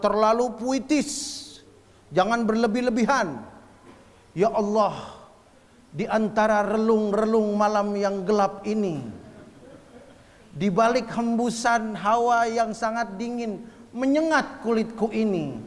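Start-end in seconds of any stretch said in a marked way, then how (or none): 4.3-15.6 slow, flowery recital of a prayer; hammed-up poetic prayer, mocked as too much; over-poetic prayer. Shown as a demonstration. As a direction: recite it like a grand poem, savouring each line. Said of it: "Itu doa apa mau sajak?".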